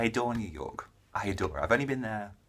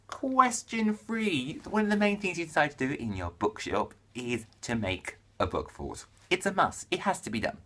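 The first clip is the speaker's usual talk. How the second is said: question read-out. Acted. Vlogger reading the book fort question, theatrical read-out. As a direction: announce it theatrically, stretching key words.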